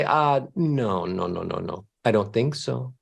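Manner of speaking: low, dismissive mock Mozart; a lightly voiced grumpy Mozart brushing it off; Mozart refusing. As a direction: Mozart scoffing at the idea, deep and dismissive. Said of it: "he'd say".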